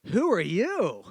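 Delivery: singsong exaggerated question with a swooping pitch; skit questioner. Person in the chair challenging the newcomer, stagey question. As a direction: deliver it as a big stagey setup line.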